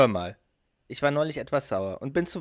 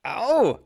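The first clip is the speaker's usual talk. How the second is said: pained yelp; 11 semitones higher, 8 dB louder than usual. Acted. Scripted scene, knocked down.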